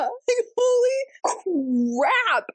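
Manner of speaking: holy crap, drawn out in disbelief; dragged-out high stunned cry; half-laughing outrage, very slow; slow stunned exclamation. Real, not acted. Reacting to the book.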